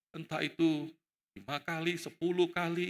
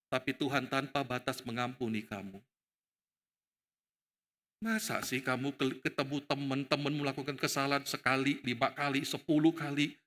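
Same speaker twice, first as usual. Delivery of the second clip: low, measured, gentle reproof; Yesus; 6 semitones lower than usual. Acted. Jesus questioning Peter about forgiveness, low gentle reproof. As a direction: reason with him patiently in a low voice. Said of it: "Yesus itu pengen ngomong dengan Petrus kira-kira begini".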